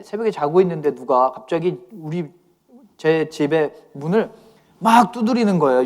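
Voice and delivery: ordinary talk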